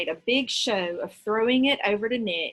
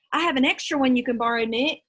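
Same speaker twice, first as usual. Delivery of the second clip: eager blurt; 3 semitones higher, 4 dB louder, faster than usual. Acted. John blurts out his line.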